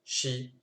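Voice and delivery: chi: ch suivi d'un i; wrong vowel take. Shown as a demonstration. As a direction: montrer la voyelle à éviter. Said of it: "on ne cherche pas à dire". (ch avec voyelle, à ne pas faire)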